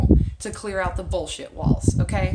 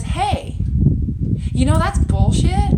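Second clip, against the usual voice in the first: higher, louder blunt callout; mock friend calling it out; 8 semitones higher, 7 dB louder, slower than usual. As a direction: play the friend who says it straight.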